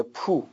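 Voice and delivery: پو said soft and alone to show the o; quiet isolated پو; soft syllable demo. Shown as a demonstration. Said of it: "پوشیدن اولش او داره".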